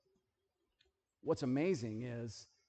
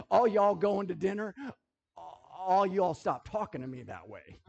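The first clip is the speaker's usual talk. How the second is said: mock indignation; 4 semitones higher, 6 dB louder than usual. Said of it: "I'm like".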